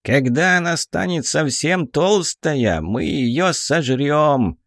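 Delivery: high, slow gleeful duergar; a greedy dwarf chief promising a feast; cheerful duergar voice. Acted. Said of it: "бодро пообещал".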